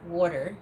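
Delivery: water with a clear R, WAR-ter; East Coast water. Shown as a demonstration. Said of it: "it sounds like W A R".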